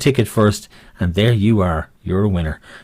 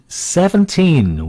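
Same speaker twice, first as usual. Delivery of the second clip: bingo caller; 6 semitones higher, much slower than usual. Acted. Bingo call drawn out.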